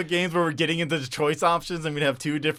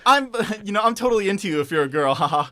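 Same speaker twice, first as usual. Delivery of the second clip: mock flirty goofball; lightly voiced cheesy flirt; goofy guy voice; 5 semitones higher, faster than usual. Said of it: "I'm the goofy guy".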